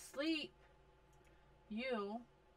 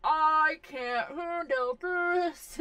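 exasperated; 7 semitones higher, 11 dB louder, much slower than usual. Real, not acted. Overwhelmed by game chaos.

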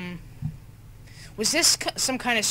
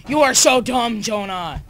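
exasperated self-scolding; 3 semitones higher, 8 dB louder than usual. Real, not acted. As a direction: scold yourself in a burst. Scolding themselves after a blunder.

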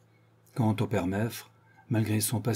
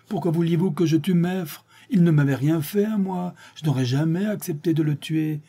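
higher, pleading protest; desperate accused; 6 semitones higher, 4 dB louder than usual. A narrator's reading. Séraphin defending himself before the court, higher and urgent. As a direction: plead innocence to the jury.

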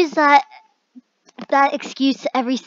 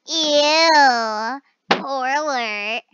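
drawn-out disgusted sneer; mock snobby disgust; disgusted brat; 4 dB louder, much slower than usual. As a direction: wrinkle your nose at the poor. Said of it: "brat voice insult".

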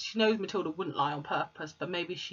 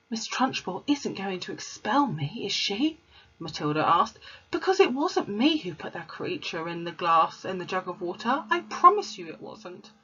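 Matilda; 2 semitones higher than usual. Acted. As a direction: plead your innocence as a child. Matilda pleading with teacher.

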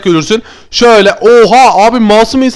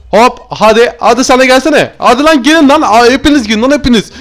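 higher-pitched, heated challenge; worked-up taunting; 4 semitones higher than usual. Pretend. Gamer daring all his enemies to come, riled taunt. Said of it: "Arkadaşlar çok sinirlendim".

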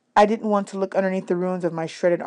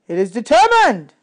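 louder formal announcement; solemn announcement; 3 semitones higher, 6 dB louder than usual. A narrator's reading. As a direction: pronounce it to the whole camp. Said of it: "Chiron announced".

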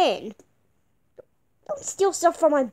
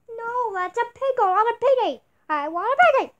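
put-on higher, louder bratty child; whiny kid protest; 7 semitones higher, 4 dB louder than usual. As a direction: complain like a spoilt kid.

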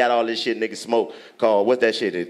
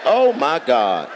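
laughing disbelief; much slower than usual. Retold or imitated. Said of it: "I'm like".

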